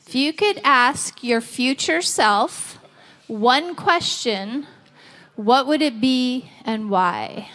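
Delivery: slowed down, spelling the question out; slow repeat. Shown as a demonstration. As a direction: repeat it slowly for the room. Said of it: "first asked at normal pace".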